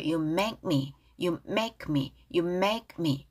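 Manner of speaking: "make me" joined with no gap between the words; linked pronunciation. Shown as a demonstration. Teacher drilling the phrase for learners, "make me" linked. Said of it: "연임 돼서 make me 띄지 마시고요".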